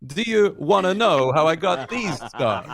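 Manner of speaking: a light, half-hearted movie villain voice; only a hint of a menacing clown; Heath Ledger's Joker. Host recalling a comedian's impression, lightly doing the Joker. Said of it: "he could actually do, uh, Heath Ledger's Joker".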